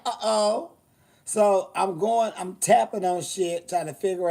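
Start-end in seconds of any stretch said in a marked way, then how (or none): 0.1-0.7 uh-oh. Retold or imitated. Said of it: "And I'm like".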